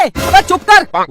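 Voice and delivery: slow threat. Acted. Father threatens family.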